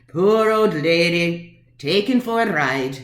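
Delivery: slow, drawn-out scorn; scornful mocking. Woman challenging the smug attorney, slow and scornful. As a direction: stretch each phrase out in mock pity. Throws attorney's pitying view back.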